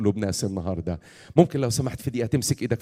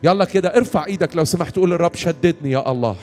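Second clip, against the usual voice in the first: raised, insistent preaching prayer; fervent prayer leading; 4 semitones higher, 4 dB louder than usual. Real, not acted. Preacher praying for the weary in the hall, fervent prayer. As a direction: plead for the congregation with rising urgency.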